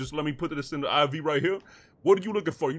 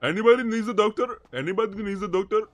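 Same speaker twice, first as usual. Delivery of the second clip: put-on foreign doctor; 2 semitones higher than usual. Fake doctor calling out for patients, in a put-on accent. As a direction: hawk your services like an eager fake doctor.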